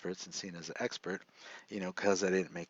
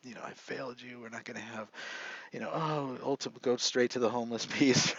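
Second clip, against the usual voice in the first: retold tearful apology; 4 semitones higher, faster than usual. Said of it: "And I started crying".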